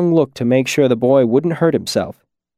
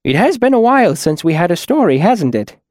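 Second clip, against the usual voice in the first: higher-pitched, mildly reluctant concession; reluctant giving-in; 6 semitones higher, 3 dB louder than usual. A narrator's reading. Trappist giving in to the children, mildly reluctant. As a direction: concede it gently, pitch raised then settling. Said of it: "he said reluctantly".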